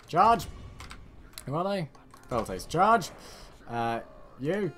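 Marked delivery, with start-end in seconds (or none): 0.1-0.5 high, loud command to charge; battle cry. Pretend. Player ordering troops into battle, rousing battle cry. 2.7-3.1 high, loud command to charge; battle cry. Pretend. Player ordering troops into battle, rousing battle cry.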